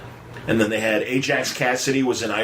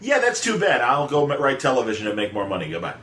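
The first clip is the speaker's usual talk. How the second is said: mock breezy; 3 semitones higher than usual. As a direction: wave them off cheerfully. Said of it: "And he's like".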